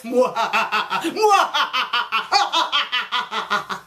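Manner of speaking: hammed-up villain cackle; long mock evil laughter. Shown as a demonstration. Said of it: "evil laughter like this".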